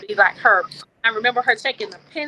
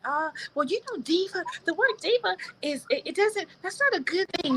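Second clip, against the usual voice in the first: mock disapproving voice; 8 semitones higher, 6 dB quieter than usual. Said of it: "when someone says".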